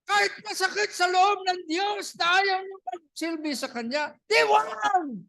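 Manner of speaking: high, insistent declaration; emphatic preaching. Real, not acted. Preacher on God's hurt at refusal, high and emphatic. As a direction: pitch it high, stretching the final words. Preacher driving home Joshua's ultimatum.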